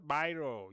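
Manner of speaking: "biro" said as "bye-ro"; English "bye" vowel in "biro"; mispronounced biro demo. Shown as a demonstration. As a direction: show the mistaken "bye-ro" for "biro". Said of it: "not biro".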